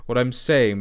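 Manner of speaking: slow put-on received pronunciation accent; mock posh received pronunciation, unhurried. Shown as a demonstration. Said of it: "put my received pronunciation voice on".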